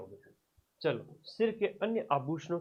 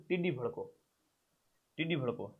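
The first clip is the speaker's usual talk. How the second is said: dictation; 7 dB quieter than usual. Shown as a demonstration. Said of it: "लिखो इसमें".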